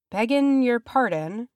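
high, polite rustic interjection; humble hobbit. A narrator's reading. Hobbit servant begging pardon to differ, humbly insistent. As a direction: pipe up deferentially, pitched high.

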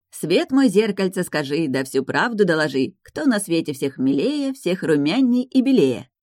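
slow, emphatic fairy-tale incantation; measured, theatrical rhyme; impatient rhyme recital. A narrator's reading. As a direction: declaim it like a magic verse. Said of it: "Не утерпела я".

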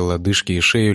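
usual speaking voice

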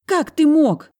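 high, loud squeal of outrage; high loud indignant girl's shriek. A narrator's reading. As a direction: shriek it at him. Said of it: "верещала она".

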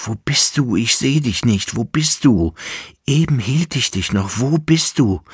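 building panic as she vanishes; rising search. Acted. Kaiser sucht sie, steigernd. (immer höher, ängstlich rufend)

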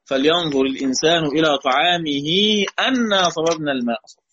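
أنا said with a clear fatha on the hamza, anna. Shown as a demonstration. Teacher showing the verse read as connected with أنا. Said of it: "يقول".

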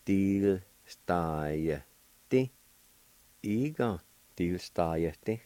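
"Til stai ti" said slowly and spaced out; slow, careful teacher demo; Cherokee pronunciation. Shown as a demonstration. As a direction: sound out each syllable slowly for the learner. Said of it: "It's pronounced like this".

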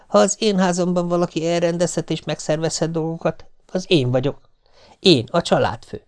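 puffed-up head of the house, with a laugh; pompous boast. A narrator's reading. Husband boasting to wife, pompous. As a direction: lord it over the family.

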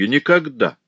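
Alfred refusing outright; resolute exclamation. A narrator's reading. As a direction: slam the door on it. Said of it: "решительно воскликнул Альфред".

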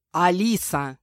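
angry growl of the name. A narrator's reading. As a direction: snap her name like a growl. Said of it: "рыкнул Мирон".

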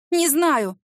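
high, loud blurt; panicked blurt. Acted. (в панике)

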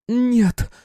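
high, loud desperate shout; frenzied cry. A narrator's reading. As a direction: scream it out in frenzy. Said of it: "иступлённо выкрикнула Михайловская". (исступлённый крик)

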